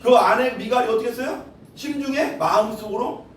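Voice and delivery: normal talking voice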